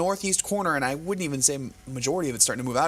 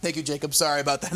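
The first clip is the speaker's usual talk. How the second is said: out of breath; faster than usual. Real, not acted. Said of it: "I'm just catching my breath".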